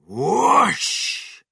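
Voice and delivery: loud, high drawn-out whoosh. A narrator's reading. Narrator sounding the medicine hitting the chicken, explosive whoosh. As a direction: swoop it out like a rocket.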